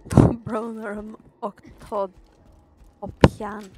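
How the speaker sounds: talking around a pen; words muffled by a pen in teeth; pen in mouth. Real, not acted. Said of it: "there is a pen in my mouth".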